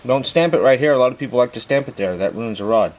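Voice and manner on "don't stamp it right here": ordinary talk, nothing marked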